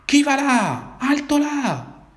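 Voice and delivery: grido alto e forte da sentinella; urlo possente. A narrator's reading. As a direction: intima l'alt come un militare. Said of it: "una vocione possente che urlò". (sentinella che urla possente)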